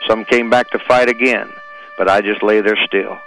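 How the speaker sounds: solemn, measured poem reading over music; poem recitation. Acted. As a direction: recite it like a memorial tribute.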